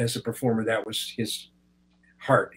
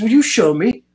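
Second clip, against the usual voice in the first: curious Anthony Hopkins; 8 semitones higher, 5 dB louder than usual. Retold or imitated. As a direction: play him amazed and curious, drawing the words out. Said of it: "he says".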